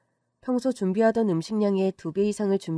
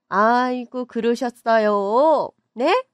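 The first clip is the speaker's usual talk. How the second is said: surprised reaction; 4 semitones higher, 6 dB louder, much slower than usual. Acted.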